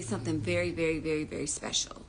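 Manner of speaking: drawn down to a hushed secret; fading to a whisper. Acted. Teasing viewers about the webinar, fading to a whisper.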